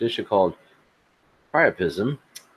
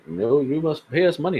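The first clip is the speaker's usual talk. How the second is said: put-on Indian accent; 5 semitones higher than usual. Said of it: "I'm not trying to do a stereotypical Indian accent".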